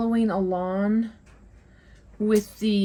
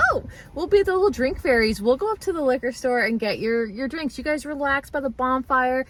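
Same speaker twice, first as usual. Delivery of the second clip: lightly acted eager helper; playful offer; 3 semitones higher than usual.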